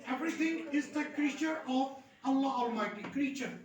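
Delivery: slow dictation of an example sentence. Shown as a demonstration. Teacher gives example sentence, slow and measured. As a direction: read it out slowly for the class. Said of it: "slow example sentence".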